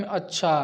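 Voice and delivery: अच्छा as a neutral statement, no questioning rise; plain statement intonation. Shown as a demonstration. Teacher demonstrating intonation, अच्छा as an ordinary statement. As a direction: state अच्छा matter-of-factly. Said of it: "सामान्य कथन में".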